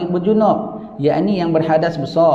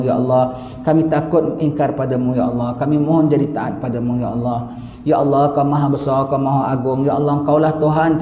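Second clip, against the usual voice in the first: humble prayer; 3 semitones lower than usual. Acted. Preacher praying aloud before his congregation, humble and pleading.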